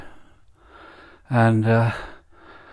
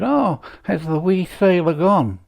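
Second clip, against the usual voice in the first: higher woman's voice, rough attempt at Scottish; attempted Scottish accent; 8 semitones higher than usual. Woman under a lamppost answers the policeman, higher attempted Scottish accent. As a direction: try a higher-pitched Scottish lilt for the joke. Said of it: "she looked at him and said".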